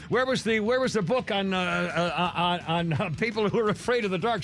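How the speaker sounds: nervous library question. Retold or imitated. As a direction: ask meekly, voice up. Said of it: "asked this woman".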